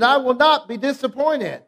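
firm, emphatic declaration; mean every word, lean on not; like you mean it. Shown as a demonstration. Preacher leading the church, said with conviction. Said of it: "Say it like you mean it".

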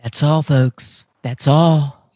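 drawn-out cartoon voice; Porky Pig. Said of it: "Porky Pig?".

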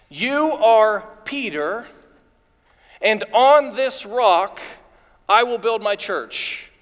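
slow, weighty delivery with pauses; solemn quotation. Acted. Preacher quotes Jesus naming Peter the rock, slow and solemn. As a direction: give each phrase room to land.

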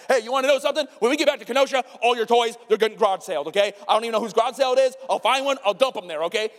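mad dad threat. Retold or imitated. Dad threatens his screaming son in the RV, mock angry. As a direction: blow up at the kid about his toys. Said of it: "I'm a dad, and I'm mad".

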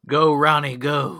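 loud, high fan cheer; root for the batter. Pretend. Cheering a player.

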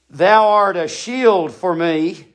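Thou drawn out slow and weighty; slow emphasis on Thou; stress on thou art. Shown as a demonstration. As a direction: lean on Thou, then let shield for me fall. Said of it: "You didn't give me a shield".

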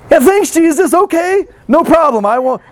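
poor listener answering Jesus with mock gratitude; sarcastic thanks. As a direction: say it with eye-rolling sarcasm.

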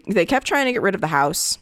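hoarse, voice failing; voice giving out. Real, not acted. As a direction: voice giving out mid-sentence. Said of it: "I'm losing my, my voice here".

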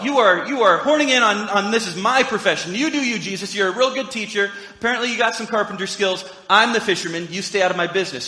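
lightly voiced Peter defending his turf; indignant Peter. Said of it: "that's probably how Peter felt".

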